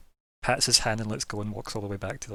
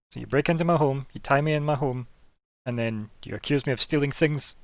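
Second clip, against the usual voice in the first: indignant accusation; 4 semitones higher, 5 dB louder than usual. Acted. Vampire accuses the party.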